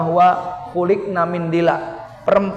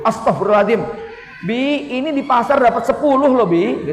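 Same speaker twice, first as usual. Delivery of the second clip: shocked wife; 4 semitones higher than usual. Retold or imitated.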